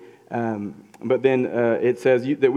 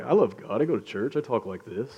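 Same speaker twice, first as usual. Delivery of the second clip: smug churchgoer; 2 semitones lower, 4 dB quieter than usual. Retold or imitated. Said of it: "there's a lot of people like".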